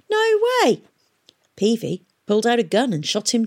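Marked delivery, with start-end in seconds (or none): 0.1-0.8 very high, indignant refusal; crying out. A narrator's reading. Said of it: "cried the pirate".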